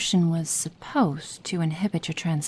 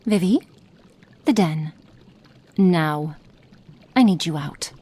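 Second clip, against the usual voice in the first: firm, louder orders; commanding; 4 dB louder than usual. Acted. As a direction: send her out firmly. Ordering Vivian out.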